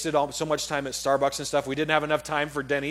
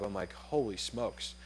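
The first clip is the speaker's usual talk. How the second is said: choked up; 5 semitones lower, 10 dB quieter, slower than usual. Retold or imitated. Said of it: "I'm just choked up".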